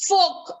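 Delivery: "fork" as fohk; silent R. Shown as a demonstration. Teacher introducing a word, fork with silent R. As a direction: drop the R from fork. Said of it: "The R is silent".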